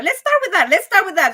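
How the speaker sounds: excited. Real, not acted. Host revving up the topic.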